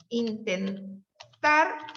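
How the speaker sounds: very slow, every syllable drawn out; slow dictation. Shown as a demonstration. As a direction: dictate it word by word. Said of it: "writing on board, dictating".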